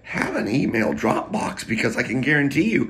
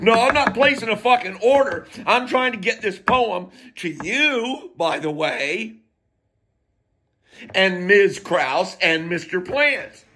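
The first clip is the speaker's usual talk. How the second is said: indignant outburst; 5 semitones higher than usual. Retold or imitated. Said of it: "And I'm like".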